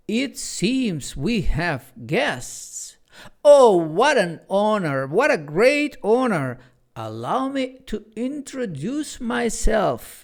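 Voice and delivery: high, slow, flowery showman; bow and preen as you introduce yourself; hammed-up grandeur; pompous theatrical clock. A narrator's reading. Quirk's grand self-introduction.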